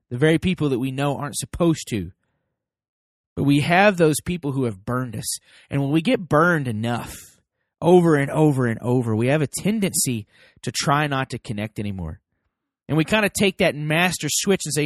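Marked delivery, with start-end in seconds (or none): none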